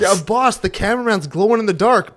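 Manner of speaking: lightly acted alarmed worker; a touch of mock panic; worried underling. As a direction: warn the boss with mild comic urgency. Acting worried worker to boss.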